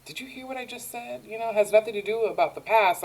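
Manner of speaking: high, quick retold protest; upset. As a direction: lightly act out an upset, hurried reply. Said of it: "he's so upset".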